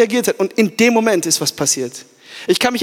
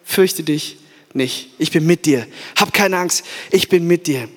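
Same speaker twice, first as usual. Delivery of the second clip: slow tender comfort; 5 semitones lower, slower than usual. Acted. God comforting the listener today.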